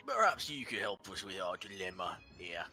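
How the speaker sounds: high, pompous giant head; a dim giant trying to sound wise; the other head. Acted.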